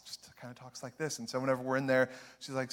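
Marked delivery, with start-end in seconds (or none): 0.1-1.2 very soft, hushed demo of her voice; hushed sample of a gentle aunt's voice. Shown as a demonstration. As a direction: drop way down to show how soft she talks. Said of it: "She has a very soft kind of voice".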